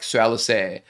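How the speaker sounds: "Alliser" ending in an open "eh" sound, as an American accent. Shown as a demonstration. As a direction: imitate an American saying "Alliser". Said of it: "the American accent is like".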